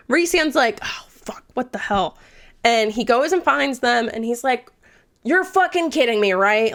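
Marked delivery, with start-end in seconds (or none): 0.8-2.2 dismayed half-whisper; hushed alarm. Retold or imitated. Rhysand noticing both are gone, hushed alarm. 5.2-6.7 mildly exasperated, pitch raised; a touch of incredulous anger; mock mad. Rhysand catching Tamlin with Feyre, mildly mad. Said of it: "he's so mad at Tamlin".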